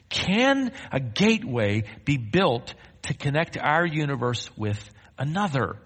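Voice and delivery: deliberate reading with pauses; measured rhetorical question. Acted. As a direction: read it out in measured phrases. Reads article's question aloud to congregation.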